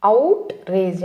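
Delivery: "అవుట్రేజ్" split as OUT... RAGE; two-part "అవుట్రేజ్", out then rage; model pronunciation. Shown as a demonstration. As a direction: say "అవుట్రేజ్" carefully for students to copy. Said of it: "ఎలా పలకాలి".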